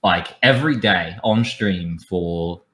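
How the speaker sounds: light blend of Australian and British; mixed Australian-British accent. Shown as a demonstration. Showing friends the accent used on stream, Australian-British mix. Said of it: "I would just talk like this".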